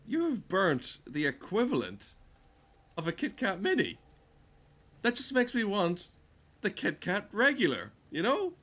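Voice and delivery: high, mock-cheery sales voice; mocking fitness ad. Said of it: "this is how they say it".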